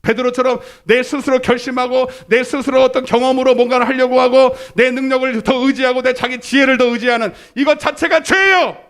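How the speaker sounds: high, driving pulpit delivery building to a shout; full-force preaching. Real, not acted. Preacher rebuking the congregation for self-reliance, full force. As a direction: preach it hard, pitched high and stretch the last line.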